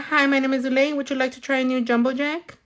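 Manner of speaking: drive-thru greeter. Retold or imitated. Worker pitching a burger at the drive-thru, lightly acted scripted greeting. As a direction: lightly imitate an order-taker's sales patter. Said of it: "Or they'd be like".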